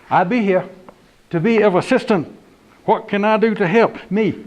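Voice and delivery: high, country yes'm; lightly voiced country deputy. Deputy greeting homeowner at door, country voice.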